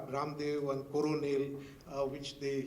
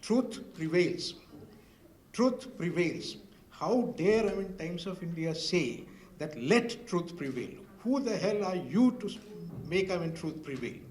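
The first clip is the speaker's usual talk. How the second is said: angry MP rebukes the editor over the motto, mock indignation; retold indignant lecture. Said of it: "And he said".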